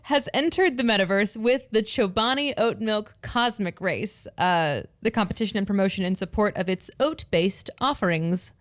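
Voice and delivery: upbeat sales pitch read; sales girl voice. Acted. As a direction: read it like a peppy promo. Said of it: "I have to get my sales girl voice back on".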